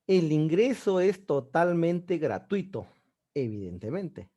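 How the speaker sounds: slow, with a clear comma pause before evidentemente; teacher reading the sentence to show the comma. Shown as a demonstration. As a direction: read it slowly and pause before the adverb. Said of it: "Primer consejito".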